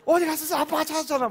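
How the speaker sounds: high, loud mock scolding; scolding the child. Angry father scolding his toddler, loud and high. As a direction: play the angry dad. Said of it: "막 그래야 되잖아요".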